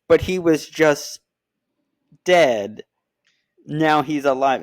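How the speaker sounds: imitating a confused partner, hammed-up; mock confused girlfriend. Girlfriend quoted protesting.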